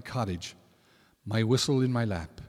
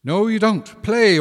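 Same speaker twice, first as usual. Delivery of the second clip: high, loud command; commanding order; 9 semitones higher, 8 dB louder than usual. Acted. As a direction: order it firmly. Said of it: "ordered the Púca".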